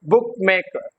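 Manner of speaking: "बुकमेकर" with बुक prominent, मेकर falling; stress on बुक. Shown as a demonstration. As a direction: lean on the first word of बुकमेकर. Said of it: "बुक पे क्या आएगा".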